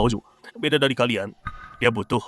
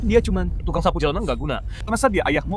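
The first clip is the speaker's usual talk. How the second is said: sneering contempt; 8 semitones higher than usual. Acted. Sneering at the sweeper father.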